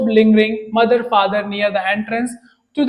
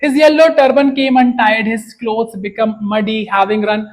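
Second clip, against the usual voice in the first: very slow, word-by-word reading; slow reading aloud; much slower than usual. A narrator's reading. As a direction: read each word out slowly for the learners. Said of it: "slow read-aloud of the text". (धीमी, स्पष्ट पाठ पढ़ाई)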